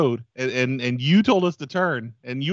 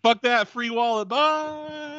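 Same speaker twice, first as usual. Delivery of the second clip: robber voice; 9 semitones higher, slower than usual. Acted. Robber fleeing.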